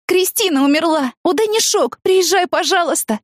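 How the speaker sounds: high, panting plea on the phone; breathless. A narrator's reading. Woman phoning friend with death news, breathless high plea. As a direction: gasp the news out. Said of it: "тяжело дыша сообщила я".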